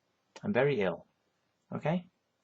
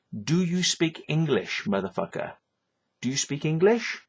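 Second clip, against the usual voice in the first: exasperated scolding; 3 semitones higher than usual. Retold or imitated. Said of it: "this is what I tell people".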